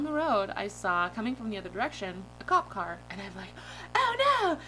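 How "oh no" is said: high, loud cartoonish alarm; mock panic. Driver spotting a cop car in a dream, mock panic. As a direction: yelp it in comic dismay.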